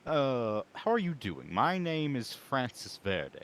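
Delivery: slow, formal in-character greeting. Acted. Francis greets Mister Nib formally in character, slow. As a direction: address the host politely, in character, slowly. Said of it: "instead, I'll say".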